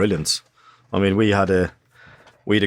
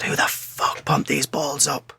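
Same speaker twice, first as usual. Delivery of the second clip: high, strained shouting coach impression; slow, drawn-out mock bellow without full volume; Bobby Saxton; 7 semitones higher, slower than usual. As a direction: imitate an irate coach yelling across pitches. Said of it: "his voice, this was his voice".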